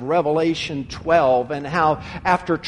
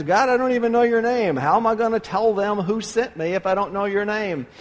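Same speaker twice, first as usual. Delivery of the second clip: pleading Moses; 2 semitones higher, faster than usual. Retold or imitated. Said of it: "And he says".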